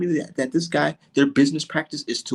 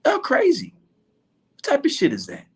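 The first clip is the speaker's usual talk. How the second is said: laughing disbelief; 9 semitones higher than usual. Retold or imitated. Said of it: "laughing like".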